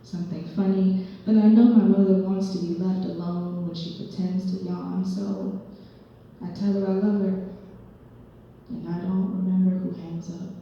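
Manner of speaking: lightly performed spoken-word poem; measured poetry reading with punched phrases; poem recital. Acted. Poet performing a monologue about her father, lightly dramatic recital.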